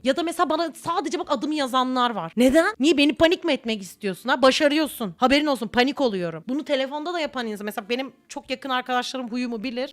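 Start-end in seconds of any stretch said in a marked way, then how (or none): 2.4-6.4 loud, alarmed questioning; panicked indignation. Pretend. Replying to a friend who only wrote her name, in alarmed indignation. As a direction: sound rattled and accusing at once.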